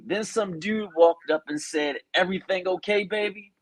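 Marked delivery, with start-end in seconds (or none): 2.1-3.5 put-on concerned boyfriend. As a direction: voice the boyfriend gently checking on her. Boyfriend's question in retold confrontation.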